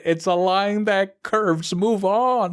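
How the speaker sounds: rising, drawn-out exasperation; exasperated rant. Real, not acted. Student complaining to a friend about a dragging class, exasperated. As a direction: vent like you're fed up with the lesson.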